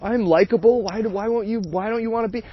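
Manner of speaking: high, whiny imitation of crying date; mock crying date. Imitating the crying date, high and whiny. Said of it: "she's crying about not being".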